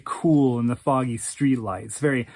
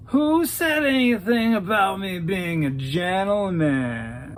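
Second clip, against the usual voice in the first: Daryl's warble; 4 semitones higher than usual. Acted. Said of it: "He said".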